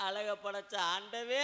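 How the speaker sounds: slow, drawn-out stagey lament; mock crying. Woman complains to the God who made beauty, tearful wail. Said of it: "அழுகாதடி".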